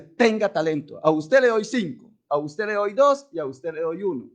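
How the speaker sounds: a hint of the master handing out talents; the Lord giving. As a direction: hand out each gift firmly. (el Señor repartiendo con firmeza)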